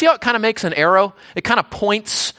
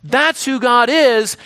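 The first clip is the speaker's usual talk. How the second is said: realization; 4 semitones higher, 4 dB louder, slower than usual. Pretend. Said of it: "so that we can say".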